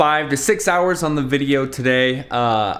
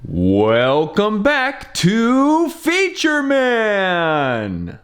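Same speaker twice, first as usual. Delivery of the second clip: big drawn-out announcer intro; 9 semitones higher, much slower than usual. Shown as a demonstration. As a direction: stretch it out like a game show host. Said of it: "I just did a voiceover".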